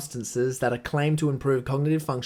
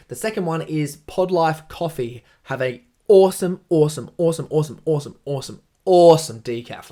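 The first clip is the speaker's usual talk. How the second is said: gushing; 6 dB louder than usual. Real, not acted. Repeating awesome for emphasis.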